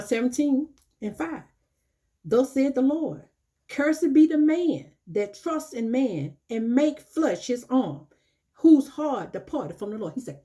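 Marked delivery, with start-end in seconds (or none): 2.2-10.1 scripture reading. Acted. Preacher reads Jeremiah seventeen aloud.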